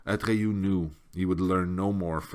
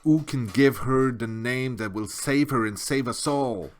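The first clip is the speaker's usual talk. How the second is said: loud, high desperate question; desperate plea; 5 semitones higher, 5 dB louder than usual. A narrator's reading. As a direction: beg for an answer. Atreyu desperate plea continues.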